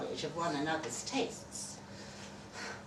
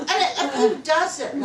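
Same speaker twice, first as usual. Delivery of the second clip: laughing; 8 semitones higher, 9 dB louder than usual. Real, not acted. Still laughing while reading on.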